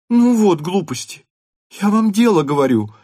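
stamping her foot in words; angry girl. A narrator's reading. Natasha rebukes her mother, angry. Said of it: "сердито сказала Наташа".

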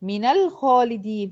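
slow "من الخالدين" as mina-lkhalidin; measured tajweed example, "من الخالدين" joined by a; demonstrating the fatha link. Shown as a demonstration. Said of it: "هحركها بالفتح".

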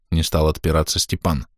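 ordinary delivery

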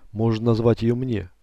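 ordinary delivery

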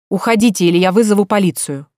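loud, cold warning; hostile threat. Acted. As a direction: threaten to call the police. Daughter threatening police.

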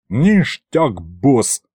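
pleased, in a mild way; mildly delighted. A narrator's reading. Demon thanks his boss for taking him along, mildly delighted. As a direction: voice a touch of glee. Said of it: "обрадовался Аристофан".

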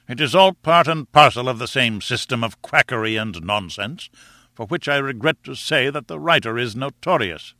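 lightly voiced disdainful professor; mildly dismissive, stressing each complaint; scornful professor. Professor dismisses his rival's quackery, mildly scornful. Summerlee scorns Challenger's instructions.

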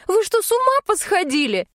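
outraged disbelief. Acted. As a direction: fling it at them in disbelief. Outraged at the three-month wait. (героиня возмущена сроком: высокий, громче, возмущённо)

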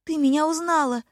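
высоко, с восторгом; обрадоваться, что узнала; радостно. A narrator's reading. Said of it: "Я пришла в восторг". (восторженно, голос взлетает вверх)

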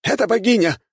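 high loud awed exclamation; the warrior exclaims as the goddess appears; exclaiming. A narrator's reading. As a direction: cry out in wonder at the golden light. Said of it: "воскликнул воин богини".

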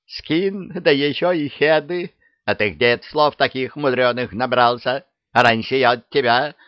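high, wondering exclamation; amazed witch. Acted. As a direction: marvel like a naive old crone. Witch marveling. (удивлённо)

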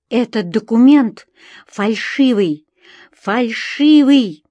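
loud, slow, stretched accusation; crying out. A narrator's reading. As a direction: shout it, hammering each word. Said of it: "закричала я". (громкий крик протеста)

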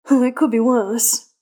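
slow, grinning drawl of a smug vampire. A narrator's reading. Astarion grins at Gale over the chrome jacket, slow and smug. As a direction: say it with a slow, pleased grin. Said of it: "Astarion grins".

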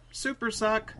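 high-pitched camp quote; lightly hammed-up camp echo; camp delivery. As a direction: mimic a camp actor's line. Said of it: "delivered it in such a camp manner".

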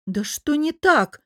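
high, slow exasperated question. A narrator's reading. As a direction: demand it as patience runs out. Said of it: "не выдержала я".

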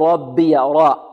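"ربي" with the ر lightened by the ب; faulty demo, light ر in "ربي"; thinned ra. Shown as a demonstration. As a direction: slowly show a too-thin ر in "ربي". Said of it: "الباء لا تؤثر في الراء".

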